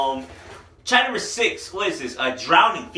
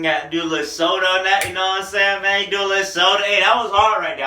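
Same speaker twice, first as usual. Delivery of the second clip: hyped; 4 semitones higher, 6 dB louder than usual. Real, not acted. Dancing along to jiggy track.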